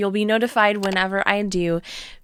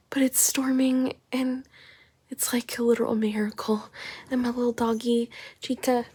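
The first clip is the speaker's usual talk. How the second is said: soft whisper, barely voiced; 3 semitones higher, 6 dB quieter than usual. Real, not acted. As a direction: whisper it so as not to break the cozy mood. Cozy in bed during storm.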